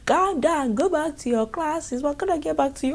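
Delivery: high, firm mock principal; high-pitched scolding VP; imitating the vice principal. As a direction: repeat the order like a fussy principal. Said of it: "the V P comes out, she's like".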